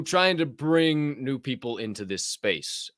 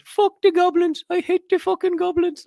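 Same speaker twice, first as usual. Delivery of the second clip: Hobgoblin voice; 7 dB louder than usual. Retold or imitated. Quoting the guest's goblin rant in a high loud screech. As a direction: shriek the curse like an angry little goblin. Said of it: "He said".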